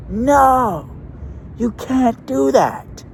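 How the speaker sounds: put-on very high, loud, slow child's wail; kid tantrum. Kid slams bench, protests.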